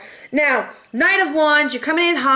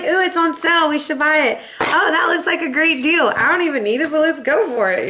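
lightly raised, giddy bargain-hunter voice; mock shopaholic; 4 semitones higher than usual. Leo mocking herself: giddy over a sale. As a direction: gush over a sale you don't need. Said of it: "I'm like".

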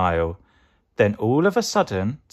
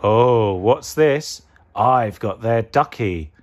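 lightly voiced evil pea; louder mock surprise, villain's gloat; 5 dB louder, slower than usual. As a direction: gloat over a prize like a baddie. Evil pea gloats over stolen ducky.

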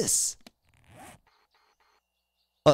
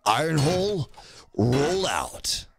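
a hint of the robot commander; Prime voice; slower than usual. Streamer voicing the robot leader ordering a roll-out. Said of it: "All right, Prime".

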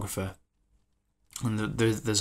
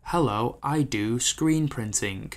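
robotic pitch; slower than usual. Retold or imitated. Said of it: "it's robotic".

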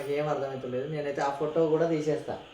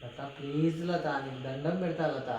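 softly pleading; 2 semitones lower, 7 dB quieter than usual. Real, not acted. Begging his wife to stop crying.

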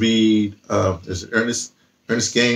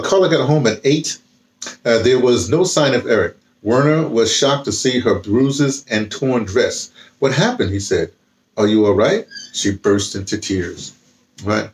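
reading a novel aloud. A narrator's reading. Reads novel passage aloud.

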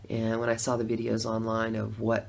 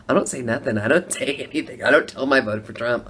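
ordinary delivery

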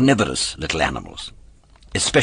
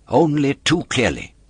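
puppet voice; 7 semitones higher, 3 dB louder than usual. A narrator's reading. Puppet answers with veiled threat.

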